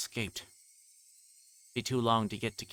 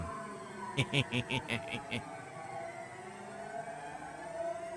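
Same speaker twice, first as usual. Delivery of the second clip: breathless manic laugh; 5 semitones higher, 6 dB quieter than usual. Acted.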